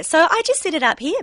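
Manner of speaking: Dorothy voice. Shown as a demonstration. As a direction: lift the voice into a bright dinosaur character. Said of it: "my voice just pitched a little bit higher".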